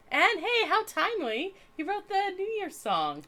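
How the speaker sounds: bright, upbeat and eager; light up with excitement; excited. Real, not acted. Excited about a poet.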